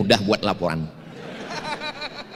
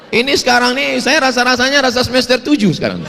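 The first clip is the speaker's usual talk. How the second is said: laughing; 11 semitones higher, 6 dB louder than usual. Real, not acted. Joking he feels like a student.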